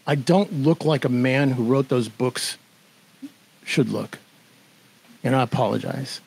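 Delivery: low, measured, humble delivery; subdued, sincere admission; retold apology. Older writer's apology continues.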